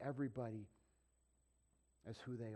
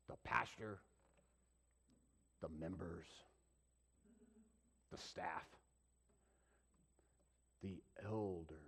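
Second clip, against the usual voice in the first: hushed list; 7 semitones lower, 7 dB quieter than usual. Real, not acted. Hushed list of church roles.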